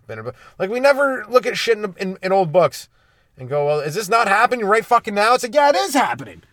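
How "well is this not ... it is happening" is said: rising, louder and much higher, real heat; getting riled up as the rant peaks; real worked-up rant, pitch climbing high. Real, not acted. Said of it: "I'm getting a little worked up".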